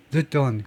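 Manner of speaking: "the don't" as reduced "thut don't"; weak THAT before don't. Shown as a demonstration. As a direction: run a schwa-vowel "that" straight into "don't". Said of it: "빨리 말하면 이 반모음은요". ("the don't"를 '듯 돈'처럼 약한 모음으로)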